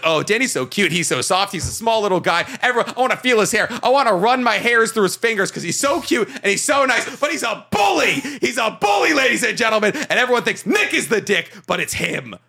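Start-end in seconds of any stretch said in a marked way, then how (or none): 0.0-9.9 mock fan gushing. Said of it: "and everyone's like".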